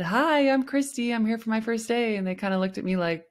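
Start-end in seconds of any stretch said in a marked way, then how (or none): 0.0-2.2 cheerful greeting. Retold or imitated. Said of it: "I said".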